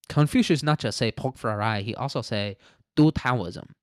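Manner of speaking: lightly put-on Chinese accent; mock Chinese accent. Riffing on Confucius inspiring Taoism, mock Chinese accent. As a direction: bring in a caricatured Chinese accent.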